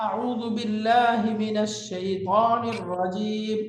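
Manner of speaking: slow, measured Arabic recitation; Quranic recitation. Shown as a demonstration. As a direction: recite it slowly, drawing out the syllables. Teacher recites a Quranic formula. (ধীরে টেনে কুরআন তিলাওয়াত)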